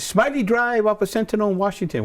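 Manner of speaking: high-pitched Indian accent impression; strong Indian accent. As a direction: give the address as an elderly Indian man. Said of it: "he had a real strong accent".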